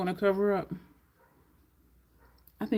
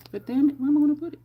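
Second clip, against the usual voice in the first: frustrated outburst; 7 semitones higher, 7 dB louder, much faster than usual. Real, not acted. Frustration with the palette.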